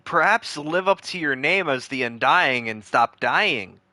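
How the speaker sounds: sarcastic. Real, not acted. Mocking the cult member.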